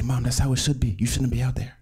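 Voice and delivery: gently insist, voice lifted a little; mild protest. Retold or imitated. Athlete telling sick mother to stay home, mildly protesting.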